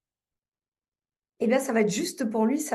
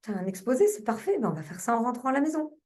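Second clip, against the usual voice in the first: kindly, supportive; 3 semitones higher than usual. Retold or imitated. Mother answers her son about his school presentation, kindly. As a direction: gently agree to the child's plan. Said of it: "j'ai communiqué avec lui de façon bienveillante".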